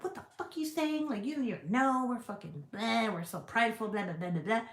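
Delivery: high-pitched imitation of indignation, settling as it goes; mock pissed-off rant. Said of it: "I would get fucking pissed".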